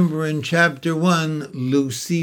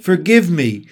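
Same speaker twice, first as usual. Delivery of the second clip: shy fawn voice; 4 semitones higher, 4 dB louder than usual. Acted. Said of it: "asked the fawn".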